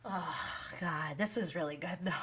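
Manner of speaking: breathy whisper to herself; hushed whisper of delight; whispered aside. Real, not acted. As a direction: whisper it like a guilty pleasure. Savoring a moment while watching.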